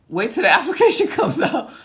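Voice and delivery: high, loud, bouncy call; playful exclamation. Real, not acted. Playful reply to viewer, then repeated plainly.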